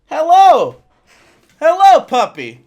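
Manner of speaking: loud greeting. Acted.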